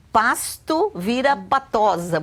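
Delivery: "pasto" slow with its S, then "patosa" ending in za; contrasting word and misspelling. Shown as a demonstration. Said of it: "ainda depois desse S ainda bota um".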